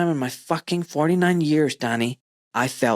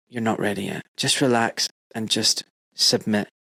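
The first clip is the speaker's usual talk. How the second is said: calm guide; 4 semitones lower than usual. Retold or imitated. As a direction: settle him down like a patient guide. Guide calmly refuses to stop.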